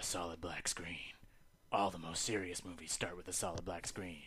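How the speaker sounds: put-on gruff superhero voice. Retelling a movie opening: Will Arnett's Batman voice. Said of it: "you just hear Will Arnett's voice being like".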